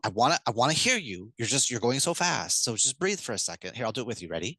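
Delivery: slowing down calmly. Shown as a demonstration. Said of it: "and then you're decelerating".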